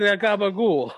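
hammed-up mobster catchphrase; Tony D'Angelo. Mimicking the wrestler for laughs, hammed-up wise guy voice. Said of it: "He just said".

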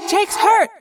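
high, loud cry of alarm; alarmed shout. A narrator's reading. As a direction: call out in alarm. Cassie cries out in alarm.

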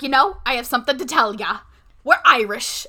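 lightly imitated Irish mom; a hint of Irish brogue; Irish accent. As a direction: announce it with a mild mock Irish accent. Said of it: "she's talking in an Irish accent".

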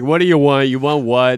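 frustrated. Shown as a demonstration. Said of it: "typical hungry and frustrated".

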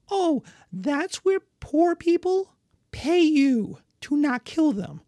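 high, loud, quick persuading; a lord hurriedly selling taxes to barbarians; eager lord pitch. Acted.

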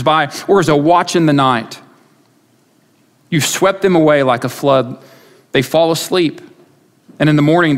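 measured, solemn psalm reading; lifted pulpit reading of the psalm; scripture reading. Acted. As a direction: read the psalm with reverence. Reads psalm aloud.

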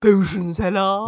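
merchant voice. Retold or imitated. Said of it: "trying to do Potion Seller".

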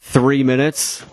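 a hint of a hyped announcer; quoted catchphrase. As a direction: call it out like a famous line. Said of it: "a top-notch reference".

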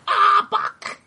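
high strained creature cry; animal impressions. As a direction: squeal it out like a monster. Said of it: "Let me try this one again".

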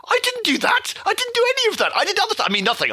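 high squeaky panicked denial. Pretend. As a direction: blurt it out high and guilty. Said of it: "it would be so hilarious".

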